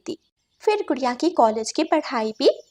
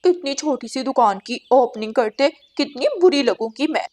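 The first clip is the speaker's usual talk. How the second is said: scheming crow. Acted. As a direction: sneer like a greedy crow. Crow Gauri scoffs.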